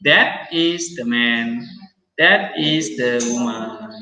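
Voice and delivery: "that is the man" read slowly, word by word; slow example read. Shown as a demonstration. Teacher reading an example sentence slowly to students. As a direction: spell out "that is the man" slowly for the class.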